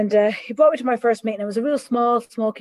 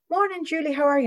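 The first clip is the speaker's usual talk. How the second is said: cheery housemate greeting; 6 semitones higher than usual. Retold or imitated. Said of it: "they'd go".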